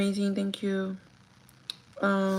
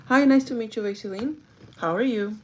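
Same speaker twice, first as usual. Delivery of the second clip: bright, higher, louder hello to a job candidate; interviewer greeting; 3 semitones higher, 4 dB louder than usual. Shown as a demonstration. Manager opening an interview with a candidate, upbeat welcoming greeting. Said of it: "That's how I start the interview".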